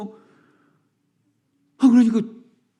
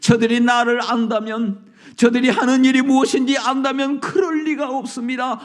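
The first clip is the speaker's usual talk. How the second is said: preaching at full force; 6 semitones higher than usual. Acted. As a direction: proclaim it with rising fervor. Preaching crescendo.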